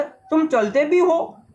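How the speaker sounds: put-on girl amazed the letter box walks. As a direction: ask it slowly in wonder. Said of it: "girl asks".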